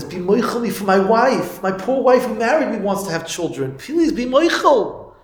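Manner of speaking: slow, rising plea ending high; begging. Retold or imitated. Childless man begging Taka to forgive, slow pleading. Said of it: "he's begging for mechila".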